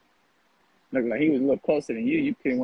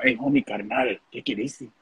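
lightly put-on Chicano homie accent, laid back; a loose, half-serious imitation of a Chicano old-timer; mock Chicano homie. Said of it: "How niggas even talk like that".

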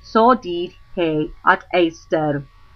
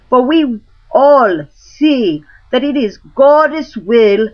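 crowd crying out; 5 semitones higher, 4 dB louder than usual. Acted. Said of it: "all the commons cried at once".

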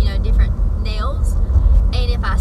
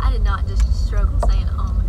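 whispered laugh; 3 semitones lower, 3 dB quieter than usual. Real, not acted. Laughing at own stumble.

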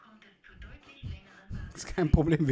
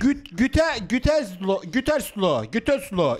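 put-on Vietnamese accent in German. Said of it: "Hotel muss man als Vietnamese anrufen".

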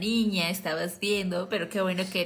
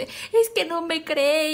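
put-on whiny child; 6 semitones higher, slower than usual. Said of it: "me puse a chillar".

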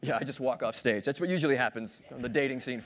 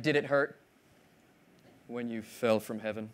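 cheesy pickup line; 6 semitones lower, 6 dB quieter than usual. Acted. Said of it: "uses one of those cheesy pickup lines".

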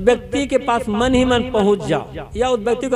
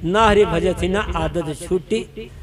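slow recited verse; 3 semitones lower than usual. Shown as a demonstration. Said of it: "एक पंक्ति कबीर साहब की याद करें".

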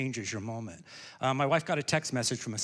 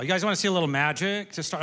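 louder, pumped-up crowd question; rousing re-ask; 4 semitones higher, 5 dB louder than usual. Real, not acted. Magician re-asks an unenthusiastic audience about magic, rousing and loud. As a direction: ask it bigger to wake up the crowd. That did not sound very enthusiastic.

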